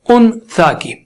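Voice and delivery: ان سا with a fully sounded n; clear unhidden noon. Shown as a demonstration. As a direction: say ان سا with the tongue touching up top on the n. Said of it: "آپ کی زبان اوپر touch ہو گئی".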